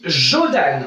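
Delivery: Jodan, slow, every syllable clear: jo-DAN; Jodan said slowly. Shown as a demonstration. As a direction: spell out Jodan slowly for the class. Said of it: "Devant la bouche, on dit". (Jodan, lentement, bien articulé)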